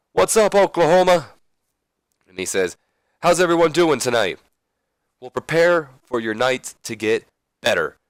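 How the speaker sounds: loud, high-pitched show opener; hyping the crowd. Acted. Wrestling boss greets the crowd from the ring, hyped up. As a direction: call out to a whole arena. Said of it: "he hypes the crowd".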